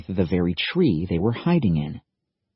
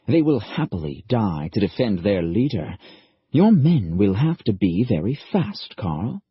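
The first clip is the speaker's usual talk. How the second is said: put-on faint German accent; 3 semitones higher than usual. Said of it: "An accent he vaguely recognized".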